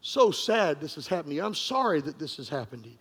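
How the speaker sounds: a hint of a sorry policeman; quiet sympathetic officer. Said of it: "he said".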